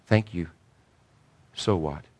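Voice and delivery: quiet, calm retort. Retold or imitated. Old lady to young preacher after church, quietly calm. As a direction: let it drop softly and calmly. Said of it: "she just calmly walked out and said".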